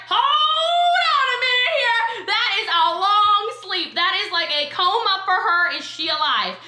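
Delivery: high, slow, fussy gadget voice, fading toward the end; mock alarmed ring app; phone app voice. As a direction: play the ring app fretting over her sleep. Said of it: "It was like".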